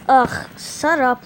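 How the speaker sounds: annoyed shut up. Acted. Annoyed retort.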